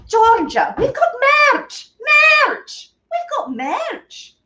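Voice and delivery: high-pitched mock Scottish accent. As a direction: attempt a hammed-up Scottish cry. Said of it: "the only Scottish accent I will attempt".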